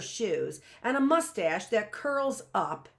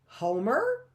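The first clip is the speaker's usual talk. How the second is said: distracted; 4 semitones higher, 3 dB louder than usual. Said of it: "momentarily distracted".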